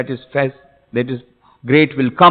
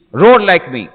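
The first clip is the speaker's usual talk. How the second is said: louder, higher command; commanding lion; 5 semitones higher, 6 dB louder than usual. Acted. Big lion teaching the small lion to roar, commanding. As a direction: urge the cub with a raised voice.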